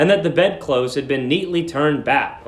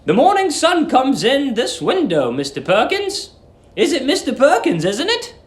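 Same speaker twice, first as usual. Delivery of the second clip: put-on high, sweet old landlady; 11 semitones higher than usual. A narrator's reading. Old landlady cooing at young guest Billy, high and sweet. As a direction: coo it like a doting landlady.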